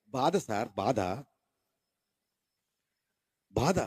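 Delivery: a hint of sorrowful anguish; pained. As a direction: groan out the pain. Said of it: "చాలా వేదనతో చెప్తున్నాడు".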